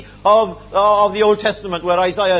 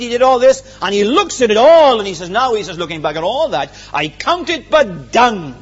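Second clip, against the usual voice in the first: loud preaching scorn; 6 dB louder than usual. Acted. Paul's scorn voiced.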